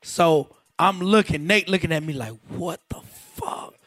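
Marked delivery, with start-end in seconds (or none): 2.5-3.7 much higher, soft, slow squeak of shock; stunned disbelief. Retold or imitated. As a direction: gasp it out in disbelief. Nate's stunned look voiced.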